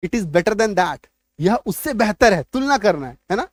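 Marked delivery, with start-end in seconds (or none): 0.1-1.1 slowly dictated English example; slow dictation; slow model sentence. Shown as a demonstration. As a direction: read it slowly for learners. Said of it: "कहते हैं ना".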